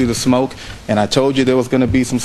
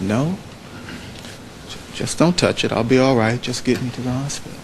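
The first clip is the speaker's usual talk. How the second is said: softer, steady voice despite the wound; gently refuse, imitating a calm man in pain; calm and quiet; 5 dB quieter than usual. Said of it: "Doctor King was calm".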